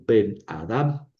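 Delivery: slow "Ben Adam" as one word, stressed on the end of "Adam"; one single accent. Shown as a demonstration. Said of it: "un solo acento".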